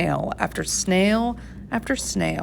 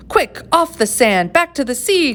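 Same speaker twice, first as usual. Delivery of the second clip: higher, urgent call to the stranded whale; urgent cry; 7 semitones higher than usual. A narrator's reading. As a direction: shout it out in a rush of panic. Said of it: "cried the snail".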